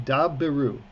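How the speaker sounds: "Dabru" with a short, clean b; model pronunciation. Shown as a demonstration. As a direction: say "Dabru" slowly and clearly for the class. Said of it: "try it after me".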